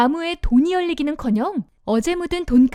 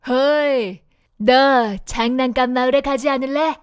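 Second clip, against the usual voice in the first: sly coachman; 2 semitones lower than usual. Acted. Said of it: "화려한 옷을 입은 마부가 말했어요".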